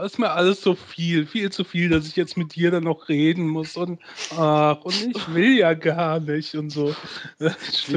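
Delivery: a lightly voiced weary whiner, slowing at the end; mock suffering Austrian. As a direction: sigh it out as if everything is too much. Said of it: "klingt so ein bisschen wie".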